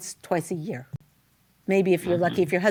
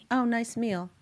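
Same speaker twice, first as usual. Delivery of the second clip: softer, tepid mock-husband praise; offhand compliment; 2 semitones higher, 5 dB quieter than usual. Husband after the Shabbos meal, offhand. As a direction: toss off the compliment with little interest.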